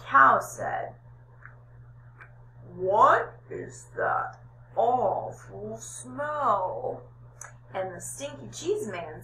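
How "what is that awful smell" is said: slow cow. Acted. Cow smells the cheese man.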